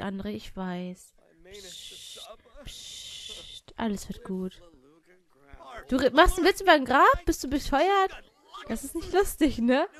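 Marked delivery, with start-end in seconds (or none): 1.5-4.6 much softer soothing shush; hushing comfort. Pretend. Hushing grieving André. 5.9-9.9 higher, louder outraged reproach; indignant scolding. Real, not acted. Scolding joke about grave.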